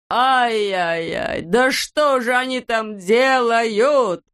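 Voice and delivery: high, drawn-out lament; angry wail. A narrator's reading. Klops seeing his garden wrecked, angry wail. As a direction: stretch the cry out in outrage. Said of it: "закричал Клопс".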